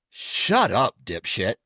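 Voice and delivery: blunt, scornful shutdown; dismissive put-down. Acted. Telling someone who said something stupid off, dismissive. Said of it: "if someone says something stupid ... I go".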